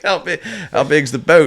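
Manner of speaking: high, slow put-on rapper voice, curious; rapper impression. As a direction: draw out the question like an amused rapper. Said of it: "he's like".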